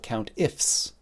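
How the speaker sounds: countifs with the closing S leaned on; stress on final S. Shown as a demonstration. Teacher naming an Excel formula, emphasis on the S in countifs. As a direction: hit the S ending countifs. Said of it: "emphasis on the S".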